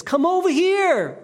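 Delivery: high, loud call across the field; retold shout. German soldier calling the British over, retold loud call. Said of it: "The shout came again".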